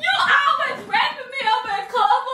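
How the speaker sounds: mock crying. Prank, mock tearful complaint.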